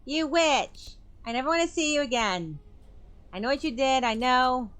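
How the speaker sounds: furious tearful outburst; angry accusation. Acted. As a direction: hurl it at her in tears of rage. Clarissa accusing through door.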